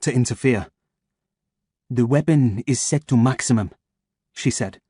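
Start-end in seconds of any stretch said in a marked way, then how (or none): 1.9-3.7 French purr. Acted. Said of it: "purring through her soft French accent".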